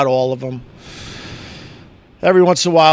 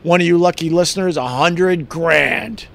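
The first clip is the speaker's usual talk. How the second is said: radio tease. Retold or imitated. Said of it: "teased it and said".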